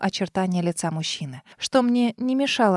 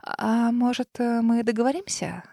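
strained smile; 2 semitones higher, 4 dB quieter than usual. Acted. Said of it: "Натянуто улыбнулась я".

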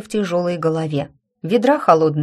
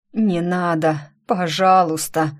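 медленная робкая мольба; пролепечи, умоляя о пощаде; умоляющий лепет; slower than usual. Acted. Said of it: "умоляюще пролепетал кто-то". (умоляющий лепет)

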